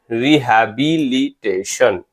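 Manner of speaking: रिहैबिलिटेशन said slowly in clear syllables. Shown as a demonstration. Teacher rounding off a spelling, रिहैबिलिटेशन in slow syllables. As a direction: sound out रिहैबिलिटेशन unhurriedly, part by part.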